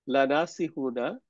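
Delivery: draws out লা নাসিহুনা slowly with a rise on লা; slow quiz reading. Shown as a demonstration. Teacher slowly reading লা নাসিহুনা to quiz the student. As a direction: stretch লা নাসিহুনা out for the student to study. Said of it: "এখন আপনি বলেন".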